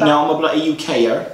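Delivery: put-on a half-hearted British accent. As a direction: insist you're British in a mock British accent. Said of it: "That's not Birmingham accent".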